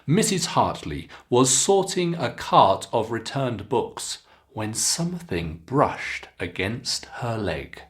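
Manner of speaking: clear, expressive teacher read-aloud; careful storybook reading for students; model reading aloud. Shown as a demonstration. Teacher reads model passage aloud.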